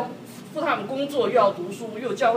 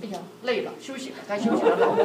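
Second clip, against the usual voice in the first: tender concern; faster than usual. Retold or imitated. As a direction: gently urge your husband to stop. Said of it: "是我心疼他".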